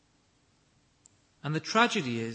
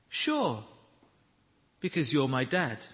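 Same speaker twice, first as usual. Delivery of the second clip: calm reply; 4 semitones lower than usual. Retold or imitated. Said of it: "He responded with remarkable calmness".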